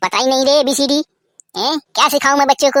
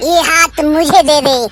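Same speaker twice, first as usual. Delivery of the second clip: Gabbar demand; 2 semitones higher, slower than usual. Acted. Gabbar demanding the Thakur's hands, menacing. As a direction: stretch out the threat slowly.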